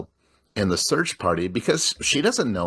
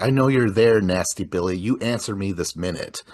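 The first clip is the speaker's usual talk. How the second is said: dad voice. Retold or imitated. Podcaster retelling a dad calling out Billy, mild stern voice. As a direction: imitate a stern dad, lightly. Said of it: "it's the dad voice".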